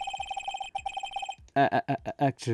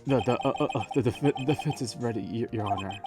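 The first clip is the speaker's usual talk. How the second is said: nervous stammer; 2 semitones higher than usual. Acted. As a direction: fumble the words nervously.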